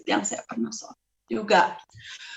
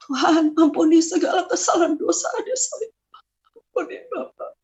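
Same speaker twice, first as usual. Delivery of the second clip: high, tearful plea; pleading prayer; 4 semitones higher than usual. Retold or imitated. Praying for a younger sibling's sins, pleading. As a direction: beg forgiveness, voice thinning high.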